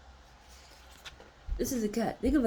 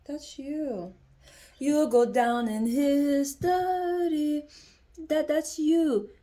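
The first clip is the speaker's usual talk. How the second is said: slow, loud and higher, like a proclamation; booming declaration; 9 semitones higher, 7 dB louder, much slower than usual. Real, not acted. Reader proclaiming to viewer their statue card, slow and booming. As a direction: call it out grandly, slowly.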